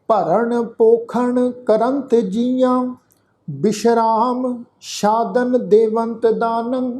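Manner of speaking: slow, measured chanting of the verse; scripture recitation. Shown as a demonstration. Teacher leading the sangat through the shlok, slow recitation. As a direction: recite each syllable slowly for the congregation. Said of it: "ਆਓ ਉਚਾਰਨ ਕਰੀਏ ਜੀ".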